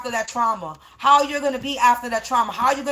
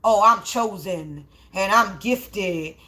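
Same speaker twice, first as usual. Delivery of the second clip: slow, drawn-out mocking brag; mock boasting; 4 semitones lower, slower than usual. Speaker imitating those out here boasting, mock-pompous brag. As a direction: stretch each claim in a lower, self-important voice. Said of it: "out here boasting".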